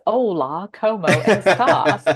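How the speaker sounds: put-on thick American accent on Spanish; gringo accent. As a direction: say it like a clumsy gringo tourist. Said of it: "Not as bad as".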